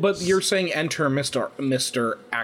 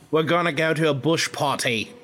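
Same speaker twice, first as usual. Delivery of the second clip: bad Australian accent; 2 semitones higher than usual. Co-host has a go as the Australian twin, badly faked Australian accent. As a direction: try an Australian accent and miss. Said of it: "I can't do an Australian accent".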